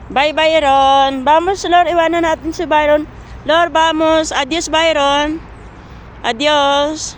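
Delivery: teasing goodbye. Real, not acted. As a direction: taunt the dog while walking off. Teasing farewell, louder. (pang-asar na paalam sa aso, mas malakas)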